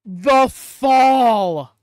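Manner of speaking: loud, high thrilled shout; excited shout. Real, not acted. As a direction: cheer it out. Reacting to a big fall.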